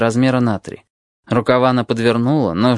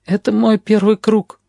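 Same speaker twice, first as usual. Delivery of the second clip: put-on slow, higher, downcast boy's voice; confessing in a small defeated voice; crushed tone; 8 semitones higher than usual. A narrator's reading. Boy admits to the narrator he is crushed, slow and dejected. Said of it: "признаётся он убитым тоном".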